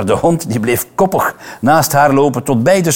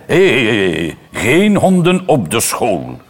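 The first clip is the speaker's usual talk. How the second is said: stern teacher's voice, lightly voiced; a hint of a strict teacher; teacher scolding about the dog, mildly stern. A narrator's reading. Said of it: "De meester klonk streng".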